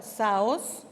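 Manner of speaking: saos accented on the O, ending in a rise; stress on O of saos. Shown as a demonstration. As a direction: lift the O of saos. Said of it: "con acento en la O".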